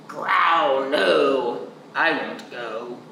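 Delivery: lightly voiced low bear; a hint of a grumbling bear. Bear refusing to leave the porch, lightly low.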